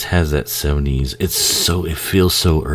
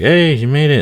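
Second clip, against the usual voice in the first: high, loud happy cry; excited kid cheer; 12 semitones higher, 7 dB louder than usual. Retold or imitated. Kid cheering as the heroine survives, loud and high.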